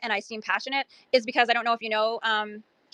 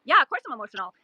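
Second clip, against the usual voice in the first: emotional; 3 semitones higher than usual. Real, not acted. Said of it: "So yeah, I'm emotional".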